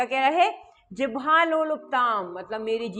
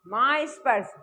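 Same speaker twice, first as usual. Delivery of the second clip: ordinary delivery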